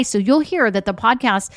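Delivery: usual speaking voice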